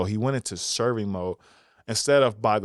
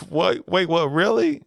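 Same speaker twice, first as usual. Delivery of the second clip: mock surprise; 6 semitones higher, 4 dB louder than usual.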